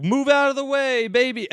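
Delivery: high-pitched mock aggressive order; imitated aggression. Men loading a stroller onto the train, mock aggressive. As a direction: push it out high, like an impatient shove. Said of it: "very aggressively and are like".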